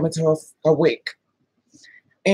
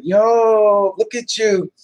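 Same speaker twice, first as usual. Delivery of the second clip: loud, drawn-out, higher-pitched "yo" of disbelief; mock group call-out; 5 semitones higher, 6 dB louder, much slower than usual. His crew seeing her grab him, loud amazed call-out. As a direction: call out like the stunned friends, stretched and loud.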